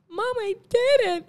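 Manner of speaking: high, slow, overwhelmed winner; imitating Anne Hathaway. Quoting Anne Hathaway's speech, high and slow. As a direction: mimic a breathless Oscar winner. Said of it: "lo primero que ella dijo fue".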